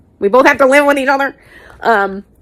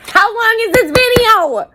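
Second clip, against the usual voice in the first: mock dismay; 12 semitones higher than usual. Real, not acted. Exasperated at own long video.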